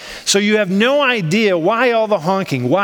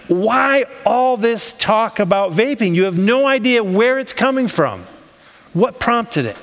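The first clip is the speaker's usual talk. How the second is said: higher-pitched, baffled questioning; puzzled wondering; 5 semitones higher than usual. Acted. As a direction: act out being at a loss for the reason. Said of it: "So you think to yourself".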